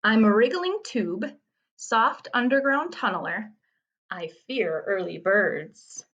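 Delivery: measured haiku reading, slowing at the end; poem reading. Acted. Teacher reads a worm riddle to students, poem reading. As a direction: read line by line with short pauses.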